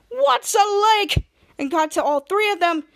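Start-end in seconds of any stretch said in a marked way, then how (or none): 0.1-1.3 slow, higher and louder question; baffled shout. Retold or imitated. Santa, puzzled by lakes, shouts slowly. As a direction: bellow it in confusion. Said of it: "cut to Santa Claus and said".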